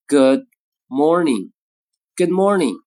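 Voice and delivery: good morning with d held before m; good morning with unreleased d; lost plosive. Shown as a demonstration. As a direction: swallow the d. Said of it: "前面爆破音呢就要失去爆破".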